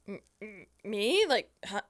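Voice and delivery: timid, halting confusion; stammering disbelief. Retold or imitated. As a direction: stammer it like you can't believe.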